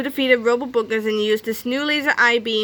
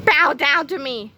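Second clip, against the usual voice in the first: commanding; 5 semitones higher, 3 dB louder than usual. Acted. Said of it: "he commanded".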